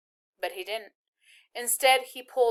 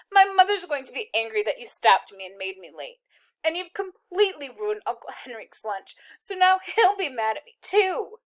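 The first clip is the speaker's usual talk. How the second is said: rising higher and louder into wails; tearful; 4 semitones higher, 5 dB louder than usual. A narrator's reading. Girl crying at the soldier, rising tearful. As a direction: complain through tears. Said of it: "she began to cry".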